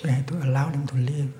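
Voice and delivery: calm monk gently addressing the killer; gentle voice. Acted. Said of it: "with a very, uh, gentle voice".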